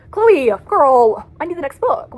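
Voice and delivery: loud, high begging; desperate plea. Real, not acted. Reviewer loudly begging the author for the sequel. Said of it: "begging the author".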